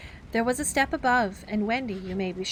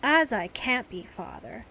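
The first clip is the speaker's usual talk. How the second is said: said heavily; 2 semitones higher, slower than usual. Acted. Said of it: "he said heavily".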